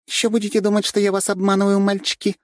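high, sly female voice, teasing; sly Katya. A narrator's reading. Katya slyly teasing the boys about trust. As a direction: tease the boys with a knowing smile. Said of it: "хитро улыбнулась Катя".

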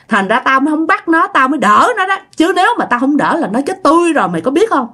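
ghost voice. Acted. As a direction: raise the pitch for the tree ghost confessing. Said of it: "ông này mới nhẹ giọng xuống".

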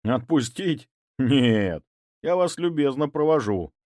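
smiling, menacingly polite; mock politeness. A narrator's reading. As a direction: sweeten the threat with a smile. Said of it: "улыбнулся я". (с улыбкой, с издёвкой)

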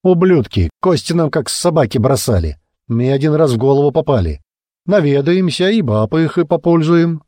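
put-on high, rowdy drunken rant; belligerent drunk. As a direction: snarl it out, drunk and spoiling for a fight. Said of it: "пьяно заорал Клоп".

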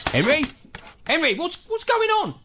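calling out. Acted. Calling the dog from the shed.

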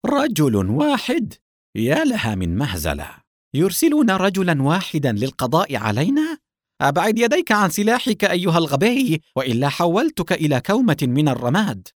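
high, scornful taunt turning to threat; mocking. A narrator's reading. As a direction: jeer at a lone opponent, loftily. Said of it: "يقول ساخرا". (سخرية متوعّدة)

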